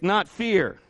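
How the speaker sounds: high, loud, driving sermon voice; preaching at full force. Acted. Pastor firing up the congregation, full-force preaching. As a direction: preach it out to the church.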